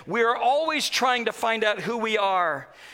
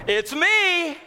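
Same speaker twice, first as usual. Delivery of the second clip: mock jump-scare; 6 semitones higher, 3 dB louder than usual. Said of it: "jump out and goes".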